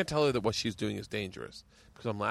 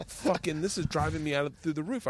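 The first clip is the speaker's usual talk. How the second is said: higher-pitched mock exasperation; retold exasperation; 4 semitones higher than usual. Dad retelling his complaint to his wife, mildly exasperated. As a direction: vent as if at wit's end, lightly acted.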